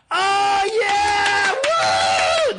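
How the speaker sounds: high, drawn-out mock cheer; whooping, shrieking fangirl impression; imitated fangirl screaming. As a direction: squeal like a crowd of teenage fans. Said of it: "Everyone starts screaming".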